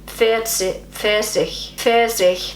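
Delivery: "Pfirsich" repeated carefully as a learner; attempted German pronunciation. Shown as a demonstration. Learner retrying after the native recording, careful attempt. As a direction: try to copy a native "Pfirsich". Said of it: "I'm gonna try again".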